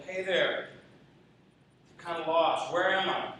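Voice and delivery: calling down, not a full shout; mock yell down. Lost balloonist to a man on the ground, mock yell down. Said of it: "he yelled down there".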